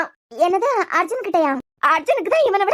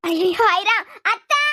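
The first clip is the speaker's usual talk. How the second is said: frightened, urgent wail of words; alarmed cry; much slower than usual. Acted. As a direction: call out for auntie in panic. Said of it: "அத்தை அத்தைன்னு அலறுன".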